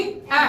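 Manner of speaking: ए said as a short open 'a' as in cat; short A sound. Shown as a demonstration. Teacher showing the class the short sound of A, short ए. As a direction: give ए as a brief 'aeh' vowel. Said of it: "ए की short sound क्या होगी".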